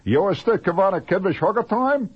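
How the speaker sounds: mock secret code phrase; silly phrase.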